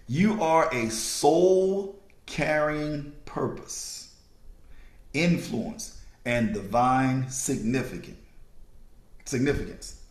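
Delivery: low, slow, phrase by phrase with long gaps; slow dictation. Real, not acted. Speaker rereading a sentence for listeners to write down, slowly. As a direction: read it out so they can copy it. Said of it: "I'm gonna read it one more time".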